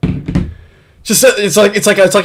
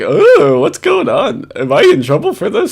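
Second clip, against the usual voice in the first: higher, mild mock of his feigned innocence; mocking quote; 4 semitones higher than usual. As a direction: parody his fake innocent question. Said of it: "he's just like".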